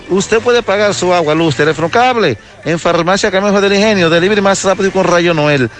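upbeat radio sponsor plug; ad read. Acted. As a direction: sell it like a live radio ad. Reporter reads sponsor ad.

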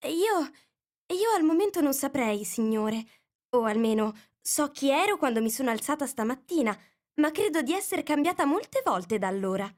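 put-on timid little girl; a bit timid. A narrator's reading. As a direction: answer shyly, unsure of herself. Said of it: "un po' timidamente".

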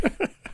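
sudden small hiccup sound. Real, not acted. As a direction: let a hiccup slip out. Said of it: "I'm hiccuping".

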